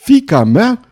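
high, loud howl of disbelief; shocked, roaring cry; terrible roar. A narrator's reading. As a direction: howl it out, pitch leaping up. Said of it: "urlă el un răcnet îngrozitor".

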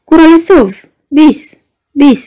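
a lightly done bellow of the new patient; mock howling madman. Guest mimicking the neighbour's shouting, mock howl. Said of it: "urlă într-una".

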